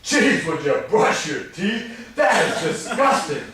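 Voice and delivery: slow, laughing mock complaint; mock disgust. Spouse complaining about breath on honeymoon, laughing mock disgust. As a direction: drag it out as a joke, grossed out. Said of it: "on your honeymoon is not the time to go".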